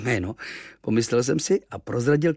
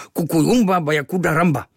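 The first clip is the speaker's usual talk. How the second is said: sulking; 7 semitones higher, 7 dB louder than usual. Acted. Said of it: "mračil se Kvíkvék".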